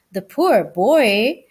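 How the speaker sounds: sympathetic sigh. Acted. Mother mouse pitying the sick boy, slow and sorrowful. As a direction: feel sorry for the sick boy. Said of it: "said Ralph's mother".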